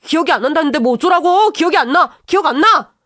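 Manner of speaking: yelling he can't remember, cornered; angry denial shout. Acted. Brother-in-law shouting at sister-in-law, angry denial.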